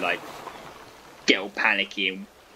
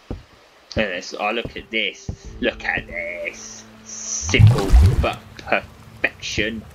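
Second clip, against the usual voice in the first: slow, savouring pride; proud admiring; 5 dB louder, much slower than usual. Real, not acted. Gamer admiring his purifier, slow proud savouring. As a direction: drawl it out admiring your work.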